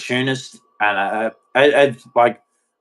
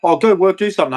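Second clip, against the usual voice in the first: pitched-up nag, mimicking a demand; mocking nagging voice; 7 semitones higher, 4 dB louder, faster than usual. To women who tell men to work, a high mocking nag. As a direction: throw her line back in a high sneer.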